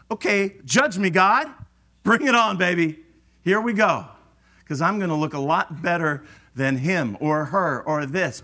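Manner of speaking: cocky challenge. Retold or imitated. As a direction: swagger through it, daring God. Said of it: "that says".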